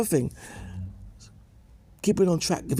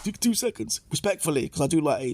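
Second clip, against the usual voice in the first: lightly voiced Charlie Sloth; 5 semitones higher than usual. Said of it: "he said".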